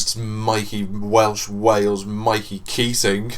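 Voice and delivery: drawn-out grand introduction; slow announcer intro. Pretend. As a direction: announce the name slowly, like a host. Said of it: "There's no need to say my name, like, three times".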